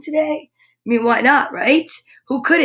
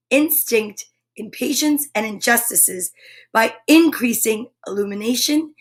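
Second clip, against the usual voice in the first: slower reading. Shown as a demonstration. Host rereads the sentence slower for viewers, slow and careful. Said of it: "Want me to read it slower?".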